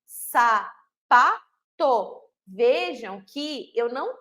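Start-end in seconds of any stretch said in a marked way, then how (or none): 0.1-0.7 "Sapato" broken into sa-pa-to; split into syllables. Shown as a demonstration. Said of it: "a gente vai quebrar ela em sílabas".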